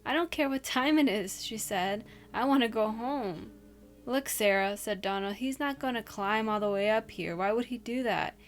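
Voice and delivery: steady storyteller voice, reading a scary tale; spooky story reading. Acted. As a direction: read it like a campfire ghost story.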